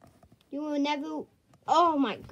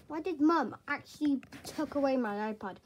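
crying; 2 semitones lower, 5 dB quieter than usual. Acted. Child upset about confiscated iPad.

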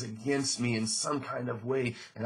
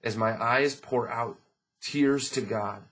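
scripture reading. Acted. Pastor reading Job's hope to the church, earnest. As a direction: let each phrase of the verse land. Reads verse.

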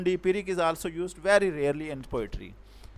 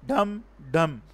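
"dum, dum" with both beats stressed; two separate, equally weighted beats on "dum, dum"; spondee beat. Shown as a demonstration. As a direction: hit each "dum" as its own stressed syllable. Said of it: "both are stress syllable".

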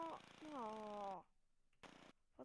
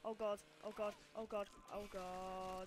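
panicked repeats; 6 dB louder, slower than usual. Real, not acted.

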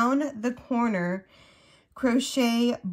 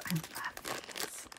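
breathy whisper of delight; 4 semitones lower, 15 dB quieter, slower than usual. Real, not acted. Crafter whispering her love for the hook set. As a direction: hush it like a secret treasure. Gushing over crochet hooks.

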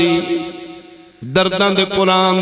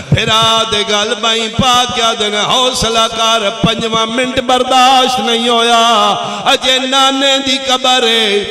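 rising lament; 5 semitones higher than usual. Acted.

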